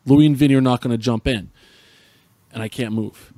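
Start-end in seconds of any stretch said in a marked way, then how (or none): 0.0-1.5 louder mock-bellowed order from dad; hammed-up fatherly command; really loud. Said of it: "really, really loud".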